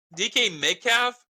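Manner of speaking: excited high-pitched yelling. Asked for their number one wide receiver, the speaker answers, yelling. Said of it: "I don't know why I'm yelling".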